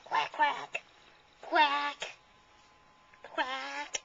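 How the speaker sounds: imitated duck quacks; duck quacking. Toy duck pesters another toy in play, quacking. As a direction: quack in separate short bursts, like a toy duck.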